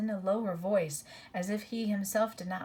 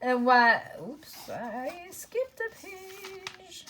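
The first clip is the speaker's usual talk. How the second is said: flustered; 11 semitones higher, much slower than usual. Real, not acted. Reader notices skipped page.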